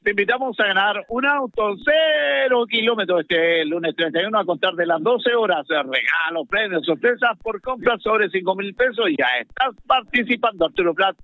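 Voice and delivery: punchy radio promo read; sports-radio advert delivery; live ad read. Acted. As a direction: announce the prize draw to listeners.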